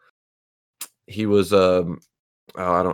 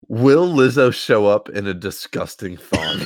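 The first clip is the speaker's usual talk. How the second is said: quoting, nearly laughing; 4 semitones higher than usual. Real, not acted. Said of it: "I quote".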